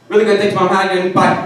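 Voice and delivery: loud, high-pitched, over-eager reply; stoned kid overcompensating. Retold or imitated. Stoned kid answers his mom before fleeing, loud overcompensation. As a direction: blurt it high and loud to get away. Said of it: "Like a fucking eleven-year-old stoned out of his fucking gourd".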